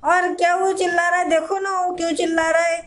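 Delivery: loud scolding mother calling out; loud, fussing mom voice; mother shouting. Acted. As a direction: shout across the house at the father. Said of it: "अब तुम क्यों चिल्ला रही हो महादेवी".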